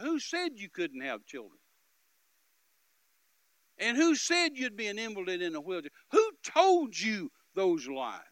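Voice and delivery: loud, high, indignant questioning; righteous outrage, shouted out; angry demand. Retold or imitated. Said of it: "it made me so angry".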